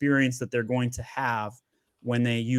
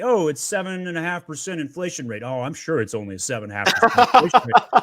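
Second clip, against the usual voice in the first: mocking the government; 3 semitones higher, 4 dB louder than usual. Host mocking the government's inflation numbers, sarcastic. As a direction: parody the official line with scorn. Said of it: "Government's like".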